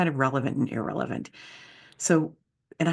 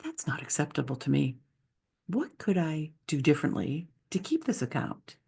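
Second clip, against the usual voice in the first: calm; 4 dB quieter than usual. Retold or imitated. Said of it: "how calmly asking".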